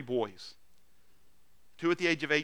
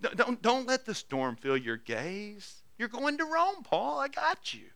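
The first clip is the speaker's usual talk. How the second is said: high, earnest reassurance; tender encouragement; 8 semitones higher than usual. Acted. Preacher voicing Jesus promising Paul he will reach Rome, tender encouragement. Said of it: "with a smile and patience and tenderness".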